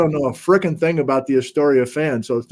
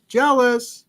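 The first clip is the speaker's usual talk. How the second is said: mock jealous whine; 7 semitones higher than usual. Repeats word in new voice.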